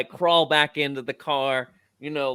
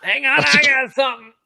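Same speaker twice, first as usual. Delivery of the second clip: higher and louder, calling from a distance; 13 semitones higher, 7 dB louder than usual. Acted. Player's character calling from the trunk, loud. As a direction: call it across the car.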